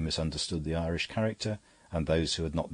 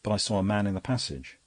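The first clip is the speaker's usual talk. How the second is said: pressed out a touch higher and stronger; unusual emphasis; 3 semitones higher than usual. A narrator's reading. Seymour insists to the priest, with unusual emphasis. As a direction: force each word, out of character for him. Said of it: "with an emphasis quite alien to his daily accent".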